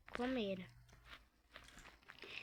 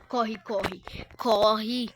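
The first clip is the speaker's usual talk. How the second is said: being chased; 8 dB louder, much slower than usual. Real, not acted. Fleeing a monster.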